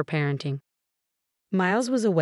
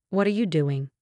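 plain reading voice

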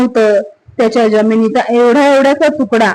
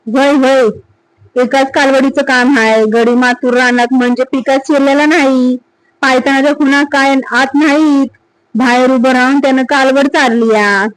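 lightly voiced village watchman; 2 semitones higher than usual. Watchman Namja shows Sata the calf tracks, lightly voiced and eager.

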